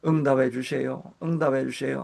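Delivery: earnest plea. Shown as a demonstration. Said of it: "하는 그런 간절함이".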